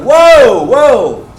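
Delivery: loud, high, booming whoas; shocked halt. Retold or imitated. Bosses interrupting his excited story, shouted disbelief. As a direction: shout it to stop someone mid-ramble.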